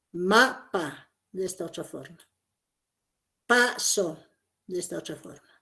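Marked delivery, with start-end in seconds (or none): 0.1-1.1 "Mapa" with MA stressed, PA dropping; acento en la primera sílaba. Shown as a demonstration. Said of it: "el acento lo colocan en la sílaba". 3.5-4.2 "Paso" with PA stressed, SO falling away; acento en la primera sílaba. Shown as a demonstration. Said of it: "el acento lo colocan en la sílaba".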